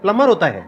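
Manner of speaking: "प्लम्बर" said as plummer, with no b sound; silent B. Shown as a demonstration. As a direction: drop the b in "प्लम्बर". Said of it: "बी silent है".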